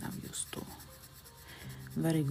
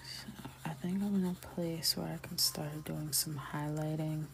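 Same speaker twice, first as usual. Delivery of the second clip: ASMR whisper. Acted. Soft ASMR coloring commentary.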